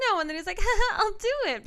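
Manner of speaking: high, hammed-up refusal then giving in; a high, hammed-up voice as the husband caves; mock high reluctant-then-eager. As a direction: squeak it like a tempted guy. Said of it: "at first he's like".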